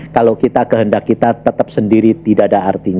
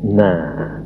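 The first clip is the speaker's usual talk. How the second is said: ordinary talk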